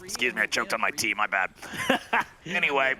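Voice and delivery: hoarse after choking on tea; rough, raspy throat after coughing; smoker's rasp. Real, not acted. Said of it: "I sound like a chain smoker now".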